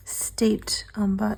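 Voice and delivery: hoarse slow whisper; breathy, slow hoarse whisper; raspy whisper. Real, not acted. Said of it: "Sorry, I'm losing my voice".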